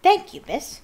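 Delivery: high, loud, grinning elf thanks; Dobby. A narrator's reading. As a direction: thank her with a big toothy grin. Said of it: "grinning toothily at her".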